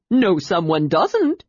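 slow words through chattering teeth; shivering, teeth chattering. Acted. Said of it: "said Tasselhoff between chatters".

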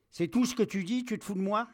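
high, loud, outraged challenge; outraged captain. Acted. Captain faces soldier who only says no, outraged. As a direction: explode at the insolent subordinate.

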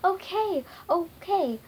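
high, loud, punchy yell. A narrator's reading. Wizard giving in to the others, yelled. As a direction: yell each okay separately. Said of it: "then Wizard yelled".

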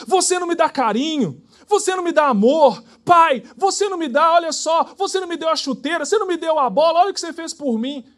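furious complaint. Retold or imitated. Child yells his grievances at his father, furious. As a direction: shout the whole list of grievances at dad. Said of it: "falando com você furiosamente".

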